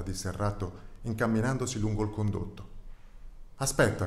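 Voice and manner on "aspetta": louder, higher mock call to stop him; calf shouting. The calf calls after the departing rat, mild shout. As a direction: call him back as he walks away. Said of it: "gridò il vitello".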